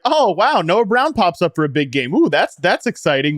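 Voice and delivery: high, bright fan excitement; mock excited. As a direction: gush like a thrilled fan. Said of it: "it's nice when it's like".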